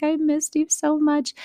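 put-on high, slow, teary child voice; a drained daughter missing mom; emotional little girl. Daughter tells mom after camp, high, slow and teary.

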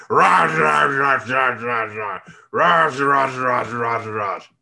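mock Russian gibberish in a strange put-on voice; weird Russian voice. Cyril mimicking the guy with the weird voice, weird Russian voice. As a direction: chant it in runs that fall away. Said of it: "the one who sounds like this".

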